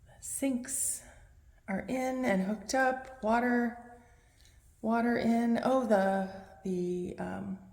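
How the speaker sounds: echoing in an empty room; big hall echo. Real, not acted. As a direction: voice bouncing off bare walls. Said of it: "I'm sorry if I'm echoing".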